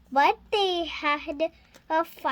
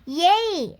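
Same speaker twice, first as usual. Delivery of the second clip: cheering; 2 semitones higher, 4 dB louder than usual. Acted. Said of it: "Sophia cheered".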